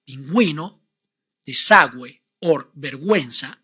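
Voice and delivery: pingüino, desagüe, vergüenza with the u sounded as w; Spanish words. Shown as a demonstration. Teacher showing the exceptions to the rule. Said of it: "where you must pronounce the vowel U".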